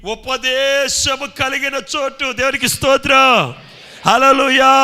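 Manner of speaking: high, loud, drawn-out sermon cry; shouted revival preaching; full-force preaching. Acted. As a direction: belt it out slowly to the congregation.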